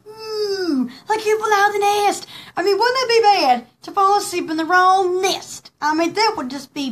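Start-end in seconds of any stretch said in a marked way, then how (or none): 0.1-0.9 a short imitated cry of a falling owl. Retelling the owl leaving its nest, imitated owl cry. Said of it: "the owl go".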